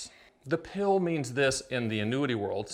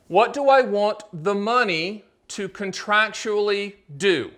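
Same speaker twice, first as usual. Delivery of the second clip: slow and deliberate, every word spaced for note-taking; slow dictation; 4 semitones higher, 4 dB louder, slower than usual. Shown as a demonstration. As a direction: read it out slowly so they can write it down. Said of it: "Wrote it down? I'll do it again".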